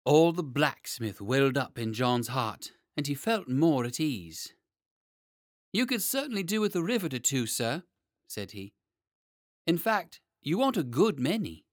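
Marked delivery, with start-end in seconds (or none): 5.7-11.7 higher, brisk expert smith; confident tradesman. Acted. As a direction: speak like a confident craftsman.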